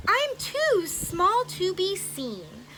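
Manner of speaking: a hint of a tiny grateful mayor; tiny mayor's voice. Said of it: "called the voice".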